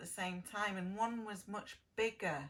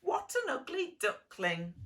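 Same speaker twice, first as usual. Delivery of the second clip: louder, higher, mocking duck voice; sneering duck; 4 semitones higher, 6 dB louder than usual. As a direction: jeer at the odd-looking chick. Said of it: "this duck said".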